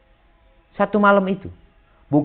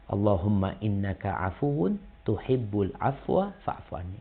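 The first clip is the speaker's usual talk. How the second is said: soft prayer recitation; 4 semitones lower, 9 dB quieter than usual. Shown as a demonstration.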